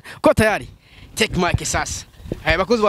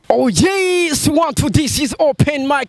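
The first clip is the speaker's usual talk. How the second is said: hype mic check; 5 semitones higher, slower than usual. Acted. Hyped mic check shout.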